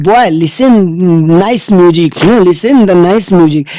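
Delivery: lightly voiced stranger coaxing the boy; a hint of a stranger sweet-talking a child. Teacher voicing the stranger coaxing the lost child, lightly. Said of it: "stranger says to him".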